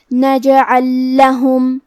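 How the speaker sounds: نجعل لہم slow, the two ل merged into one doubled ل; idgham demo. Shown as a demonstration. Teacher modelling idgham on نجعل لہم, slow. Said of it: "تشدید کے ساتھ پڑھیں گے".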